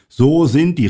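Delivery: high, loud insistence; emphatic high-pitched outburst; exclaimed. A narrator's reading. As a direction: cry it out with a big push on the first word. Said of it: "rief Mike".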